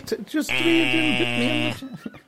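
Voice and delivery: high-pitched mock Scottish accent; hammed-up Scottish brogue. Shown as a demonstration. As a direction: put on a squawky, over-the-top Scot. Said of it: "you should say that in a Scottish accent".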